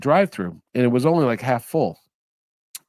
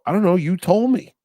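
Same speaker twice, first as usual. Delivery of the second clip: higher, louder innocent reply; playing dumb; 5 semitones higher, 4 dB louder than usual. Talking back to the traffic cop, mock innocent and raised. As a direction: act baffled at the cop. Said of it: "I go".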